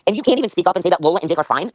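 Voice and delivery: real, worked-up reproach; going off on someone. Real, not acted. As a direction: fire off indignant questions at a former friend. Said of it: "I'm sorry for going off on you".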